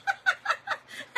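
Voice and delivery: high, loud shriek through laughter; laughing call-out. Real, not acted. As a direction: yell the name while cracking up. Calls out viewer's name while laughing.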